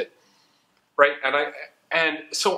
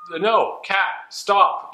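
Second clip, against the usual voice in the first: scolding a pet; 6 semitones higher, much slower than usual. Real, not acted. Scolding her pet Kat.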